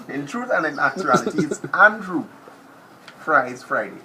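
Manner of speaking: loud mock formal announcement. Real, not acted. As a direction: announce it to the crowd. Announcing real name loudly.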